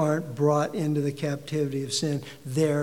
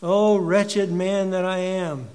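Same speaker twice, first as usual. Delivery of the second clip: echoed lament; 3 semitones higher, 5 dB louder, slower than usual. Acted. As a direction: let the cry sink back down. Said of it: "He cries out".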